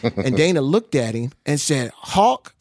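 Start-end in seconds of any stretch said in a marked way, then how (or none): 1.9-2.5 high, rising one-word answer; nickname reply. Retold or imitated. Dana answers the neighbor with his nickname, high and rising.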